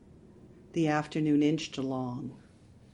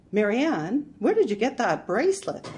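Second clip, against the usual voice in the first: gasped question; 6 semitones higher, 7 dB louder than usual. A narrator's reading. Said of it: "I grabbed her wrist and gasped".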